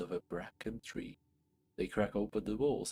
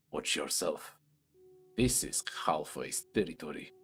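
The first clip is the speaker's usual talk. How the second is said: a hint of a lower, gruff beast warning; lightly voiced bugbear; 5 semitones lower than usual. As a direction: warn the intruder off his land. Bugbear threatens the cleric.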